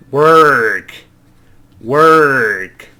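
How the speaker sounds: "work" with no vowel, only r; "work" in American English, r instead of a vowel; r-colored vowel. Shown as a demonstration. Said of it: "no se pronuncia la vocal".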